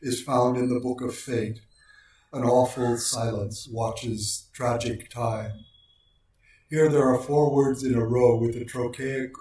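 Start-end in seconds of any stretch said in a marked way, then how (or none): 2.3-5.7 slow, measured recitation of the line; slow and hushed, weighing every beat; slow poem reading. Shown as a demonstration. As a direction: let each trochaic word fall slowly. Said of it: "A striking example".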